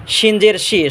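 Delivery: "শিন জের শি" with sh from mid-tongue; hushing sh in "শিন জের শি"; mid-palate SHIN. Shown as a demonstration. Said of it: "শিন জিব্বার মাঝখান".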